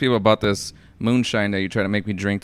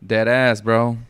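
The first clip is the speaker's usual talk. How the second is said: mock dead serious; 5 dB louder, much slower than usual. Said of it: "Be like".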